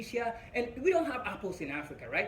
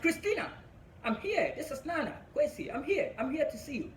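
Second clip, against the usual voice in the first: calling out; 6 semitones higher than usual. Retold or imitated. Calling into a dim room.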